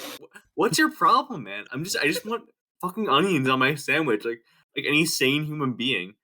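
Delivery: high, slow, exasperated complaint; mock exasperated rant. Kid retelling his Subway rant, mock exasperated. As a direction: vent like a wronged customer.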